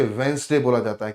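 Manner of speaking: वेंसडे said as "Wensday", no middle d; showing students how to say Wednesday; correct pronunciation. Shown as a demonstration. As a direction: say वेंसडे in two syllables. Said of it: "वेडनेसडे नहीं बोलते".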